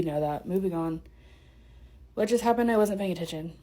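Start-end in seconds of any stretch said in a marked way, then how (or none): 2.1-3.6 breathless between words; out of breath. Real, not acted. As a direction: talk short of breath. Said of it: "I'm out of breath".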